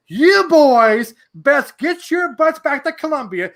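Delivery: old Clemson lady ordering the boys home, mock stern. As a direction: warn the boys off like a strict grandmother. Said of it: "She goes".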